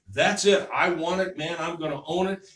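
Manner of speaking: loud burst of enthusiasm; fired-up resolve. Acted. Inspired listener vowing to own it, fired up. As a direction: act out someone seizing an idea, punchy and loud.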